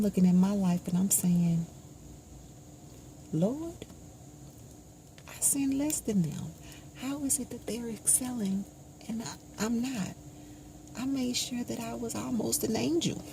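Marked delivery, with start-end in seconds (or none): 3.3-10.1 plaintive prayer. Retold or imitated. Complaining prayer to God.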